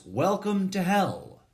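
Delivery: a high, emphatic greeting from hell; all caps, shouted. Acted. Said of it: "All caps".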